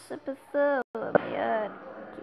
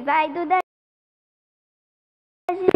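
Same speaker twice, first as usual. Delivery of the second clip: loud, rising cheer; 2 semitones higher, 9 dB louder than usual. Real, not acted. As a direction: cheer it like a fan. Louder cheer of the same name.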